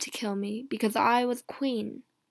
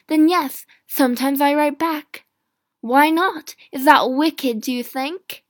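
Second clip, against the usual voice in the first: passionate defence; 2 semitones higher, 7 dB louder than usual. Acted. Mary pleading before her judges, in a rising indignant outcry. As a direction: fight for her life before the lords, building to an outcry.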